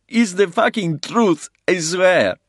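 high, loud, tearful confession; desperate crying plea. A narrator's reading. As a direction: spill it all out, desperate. Captive confesses in tears.

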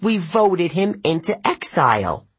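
high pompous satyr, "voted" said flatly as fact; satyr's claim. A narrator's reading. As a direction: state "voted" as settled fact.

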